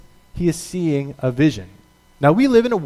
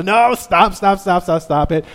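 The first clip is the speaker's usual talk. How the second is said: louder laughing brush-off, fading; playful dismissal; 3 semitones higher, 4 dB louder than usual. Retold or imitated. Passengers teasing the hijacker, playful. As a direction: wave him off as a joke.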